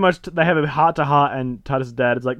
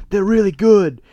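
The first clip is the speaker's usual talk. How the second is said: higher-pitched eager praise; acted excitement; 5 semitones higher than usual. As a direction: gush lightly in a raised voice. Wife praising designs to others.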